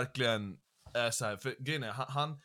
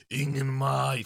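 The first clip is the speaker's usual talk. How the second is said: imitating the rapper; 4 dB louder, slower than usual. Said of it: "försökte härma det med så här".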